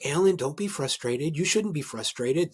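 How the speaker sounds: lightly hammed-up reassurance, slowed down; mock soothing manager. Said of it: "and I say".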